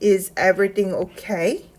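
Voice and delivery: "Is everything okay?" read very slowly, each word clear; slow, careful teacher model of "Is everything okay?". Shown as a demonstration. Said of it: "또 다른 반응으로 볼 수 있는 표현입니다".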